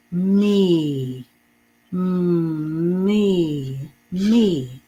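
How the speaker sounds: me drawn out, blended from mm; modeled word. Shown as a demonstration. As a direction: blend mm into me, hold it. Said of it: "M has the mm sound".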